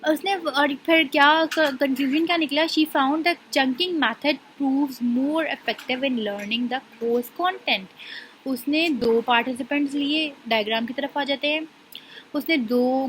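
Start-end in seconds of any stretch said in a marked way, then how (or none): 2.6-7.9 slow, deliberate dictation pace; reading a definition aloud. Shown as a demonstration. Teacher reading a textbook definition to her class, slowly. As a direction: read each word out slowly for students to follow. Teacher reads out example scenario.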